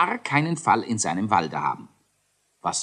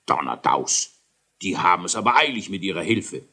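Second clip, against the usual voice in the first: astonished king; 3 dB louder than usual. Acted. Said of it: "Der König staunte".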